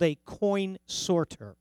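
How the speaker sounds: coin sorter slow, each word set apart; slow, careful stress on coin sorter; emphasis on coin sorter. Shown as a demonstration. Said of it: "I'm saying that with distinction here, with a little emphasis".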